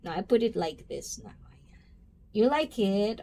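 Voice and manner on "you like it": whispered shy question. Real, not acted. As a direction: breathe it out, almost secretive. Showing new hairstyle to chat.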